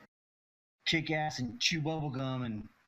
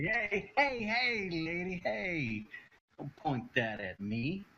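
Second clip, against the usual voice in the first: high-pitched protest easing downward; alarmed protest; 4 semitones higher, slower than usual. Acted. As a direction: fend off someone aiming at you. Character smacks away a pointed gun.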